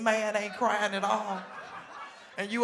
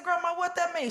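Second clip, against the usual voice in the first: confused question; 10 semitones higher than usual. Retold or imitated. Asking grandma, confused.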